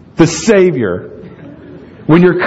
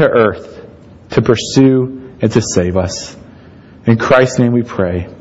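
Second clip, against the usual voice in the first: measured pastoral prayer, slightly lowered voice; earnest closing prayer; 2 semitones lower than usual. Real, not acted. Pastor leads congregation to God after sermon, earnest praying.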